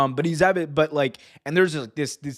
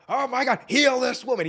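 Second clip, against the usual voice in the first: higher, overblown preacher plea; Vince impression; 10 semitones higher than usual. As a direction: ham up a faith-healer cry. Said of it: "Vince is like".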